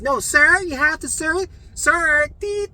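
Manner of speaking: high, loud imitated remonstrating; insistent staff. Nurses to a patient who won't listen, insistent.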